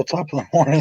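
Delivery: lightly attempted Irish greeting; casual Irish impression; mock Irish accent. Shown as a demonstration. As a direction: have a go at an Irish lilt.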